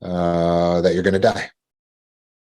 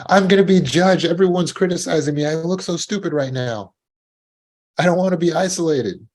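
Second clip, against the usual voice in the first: mock anxiety; 8 semitones higher than usual. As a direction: sound ashamed and cornered. Acting out anxious inner voice.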